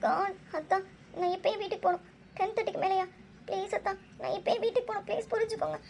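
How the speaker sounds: high-pitched, upset begging to go home; urgent, weepy appeal to be understood; tearful pleading. Acted. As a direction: plead on the edge of tears, pitch rising. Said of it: "எதுக்கு அழுகுற?".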